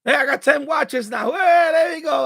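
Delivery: loud, excited whoops; cheering his own win; fired up. Real, not acted. Streamer cheering his watch count, fired up and loud. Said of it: "I'm getting fired up now".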